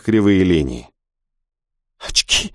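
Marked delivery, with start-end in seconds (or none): 2.0-2.5 a gasped word with no voice. Acted. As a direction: gasp it on the breath. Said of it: "ахнула Хана".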